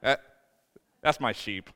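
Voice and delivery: God's fond voice. Retold or imitated. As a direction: shake your head fondly at a silly sheep. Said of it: "he's like".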